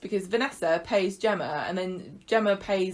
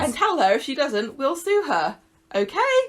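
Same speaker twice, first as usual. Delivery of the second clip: raised pitch, leaping up at the end; imitating a chirpy menace, getting louder; mock cheery threat; 5 semitones higher, 4 dB louder than usual. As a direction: threaten them as if it were good news. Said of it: "how cheerily he told him that".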